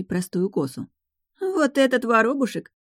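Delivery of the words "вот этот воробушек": high mocking scorn; scornful. A narrator's reading. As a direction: look down on the little sparrow. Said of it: "брезгливо оглядела она". (презрительно)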